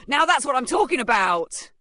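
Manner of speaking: loud, high whoop of approval; cheering. A narrator's reading. Onlookers cheer the coming kick, shouting excitedly. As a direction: cheer from the crowd. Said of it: "cheers started to rise".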